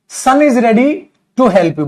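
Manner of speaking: very slow, spelled-out English; slow demo. Shown as a demonstration. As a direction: say it word by word for the class. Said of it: "teacher slow demo of English". (धीरे-धीरे समझाते हुए)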